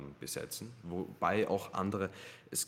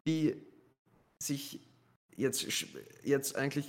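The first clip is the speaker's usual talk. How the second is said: high and loud indignant rant; agitated rant; 9 semitones higher, 6 dB louder than usual. Real, not acted. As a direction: vent about the idiots. Ranting about idiots, pitch jumps.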